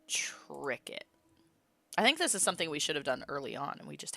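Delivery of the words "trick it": whispering. Acted. Plotting a trick in a game.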